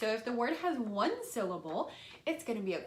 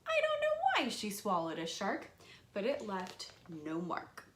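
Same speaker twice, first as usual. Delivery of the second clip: put-on reading to children. Shown as a demonstration. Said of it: "how I actually present the lesson is like this".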